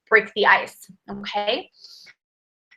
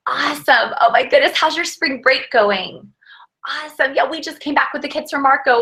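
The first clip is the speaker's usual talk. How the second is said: excited fast pitch. Shown as a demonstration. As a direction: rush along, bubbly and eager. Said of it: "I'm talking super fast. I'm excited".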